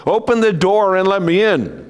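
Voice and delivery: high loud big bad wolf. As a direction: growl it like the wolf. Wolf voiced in story.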